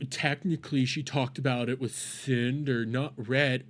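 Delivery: mocking repeat. Mocking the streamer's words.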